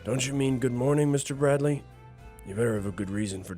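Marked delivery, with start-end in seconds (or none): 0.0-1.8 pointed correction. Acted. Woken boss corrects the late visitor.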